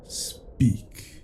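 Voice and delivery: hushed, breathy repeat of "speak."; the first warning, barely voiced; quiet command. Captive refuses to answer.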